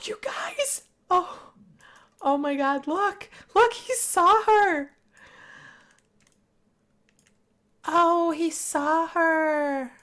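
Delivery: high, loud, squealing excitement; high, loud and stretched out in delight; excited. Real, not acted. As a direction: squeal it out like a thrilled fan. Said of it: "I am so excited".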